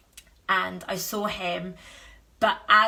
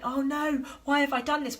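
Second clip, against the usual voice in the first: higher, whiny "why" hammed up; self-pitying wail; 6 semitones higher than usual. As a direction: play the victim, mock-despairing. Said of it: "victim mode".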